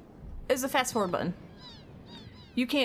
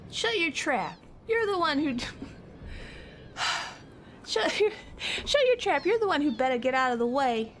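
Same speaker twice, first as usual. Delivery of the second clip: hammed-up Kid; feisty girl voice; 7 semitones higher than usual. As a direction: snap back like a tough girl. Voicing Kid shouting.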